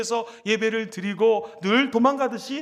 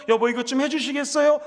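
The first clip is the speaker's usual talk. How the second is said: polite request. Shown as a demonstration. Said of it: "이러면 안 됩니다".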